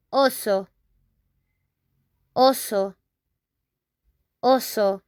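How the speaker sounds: oso with pure o vowels and a crisp s; Spanish oso. Shown as a demonstration. Teacher drilling the word for bear, clear model. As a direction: repeat oso for the class. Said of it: "We say that in Spanish".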